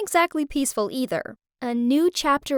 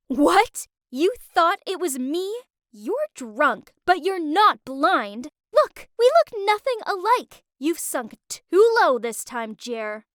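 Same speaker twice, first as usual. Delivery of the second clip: angry; 4 semitones higher, slower than usual. Acted. Girlfriend confronting cheating boyfriend.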